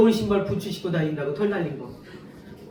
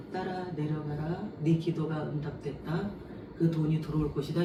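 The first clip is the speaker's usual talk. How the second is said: voice of God; 3 semitones lower, 7 dB quieter than usual. Retold or imitated. God answering her dawn prayer.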